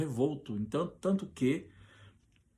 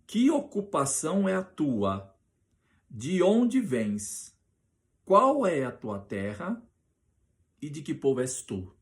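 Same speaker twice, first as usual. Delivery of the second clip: loud, higher, slow questions; interrogation; 4 semitones higher, 4 dB louder than usual. Acted. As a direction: fire each question at him slowly and loudly. Sailors interrogating Jonas.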